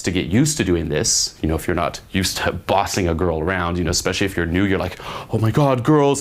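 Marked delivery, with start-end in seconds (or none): 5.3-6.2 mock panic, pitch and volume lifting; freaking out. Coach imitating a new guy facing girls, mock freak-out. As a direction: imitate a nervous beginner getting flustered. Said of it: "freaking out going up".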